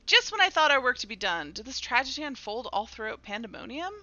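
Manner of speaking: theatrical line, loud start then easing; dramatic dialogue reading. Acted. Character learns the tragedy spread through Pandemonium, dramatic reading. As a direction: read it as troubled game dialogue.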